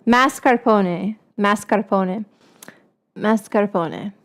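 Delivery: Mascarpone repeated slowly with a lift at the end; drilling the word. Shown as a demonstration. Host teaching viewers the word, slow drill. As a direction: coach the audience on Mascarpone. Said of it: "Everybody say it with me now".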